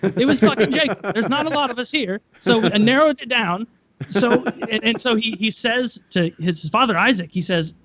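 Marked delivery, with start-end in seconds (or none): 0.0-3.6 higher-pitched comic disbelief; incredulous outburst. Retold or imitated. Cheated son reasoning with his father about Jacob, incredulous. Retold Esau outraged at the trick.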